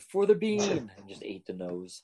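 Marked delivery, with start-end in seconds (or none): 0.0-0.9 high, loud mock battle cry; hammed-up yell. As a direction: imitate someone hollering a rallying cry. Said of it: "He yelled".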